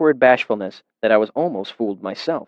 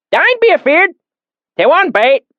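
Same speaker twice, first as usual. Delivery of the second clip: put-on deep valley accent; 5 dB louder than usual. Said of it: "his accent so thick and oily".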